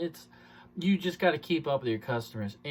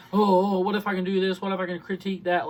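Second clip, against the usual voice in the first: mock fussy objections; 3 semitones higher, 4 dB louder, faster than usual. Salesman mimics customers picking at a deal, mock fussy. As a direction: imitate a fussing customer, raised pitch.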